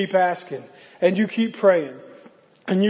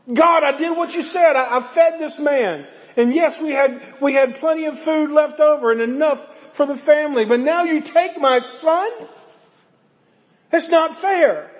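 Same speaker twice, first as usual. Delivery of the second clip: raised, pleading complaint to God, slowing at the end; a grieving mother accusing God, higher pitched; widow's anguished protest; 4 semitones higher than usual. Acted. Widow protesting the death of her son, raised and pleading.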